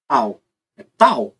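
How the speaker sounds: tal with a clean hard T, slowly; plain T demo. Shown as a demonstration. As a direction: say tal, never tchau. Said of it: "Se eu falar, por exemplo".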